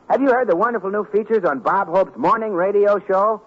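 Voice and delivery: ordinary talk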